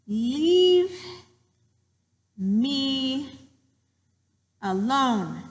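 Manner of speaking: word by word with long pauses; mouse's protest. Acted. Teacher voices the mouse while writing, spaced-out protest. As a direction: start high and loud, step down in pitch. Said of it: "this little mouse was saying to my cat".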